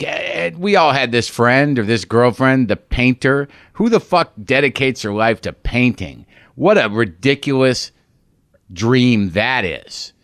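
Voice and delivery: slow, sneering dismissal of painters; spiteful, drawn-out contempt. Retold or imitated. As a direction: scoff at the painter girlfriend. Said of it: "I had some spite in my voice".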